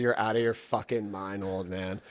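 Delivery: loud, laughing disbelief at the idea; incredulous mock outrage. Son mocking his dad's karate idea, loud and incredulous. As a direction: scoff at it like it's insane. Refusing dad's jiu-jitsu suggestion.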